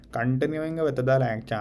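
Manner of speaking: heavy Indian English accent, stress on with; exaggerated Indian accent, lecture tone; thick Indian accent. Shown as a demonstration. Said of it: "I'm just gonna use my thick Indian accent".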